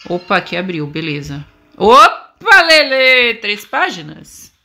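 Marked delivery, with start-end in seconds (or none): 1.8-3.3 surprised. Real, not acted. Sudden find in horror game.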